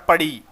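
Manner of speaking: पढ़ी with a clear final "ee"; पढ़ी said alone to show its "ee" ending; ई sound shown. Shown as a demonstration. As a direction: point up the ई that ends पढ़ी. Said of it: "ई का sound आ रहा है".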